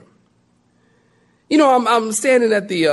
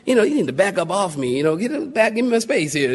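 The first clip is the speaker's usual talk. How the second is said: pushback; 2 semitones lower, 4 dB quieter, faster than usual. Retold or imitated. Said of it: "And I'm going".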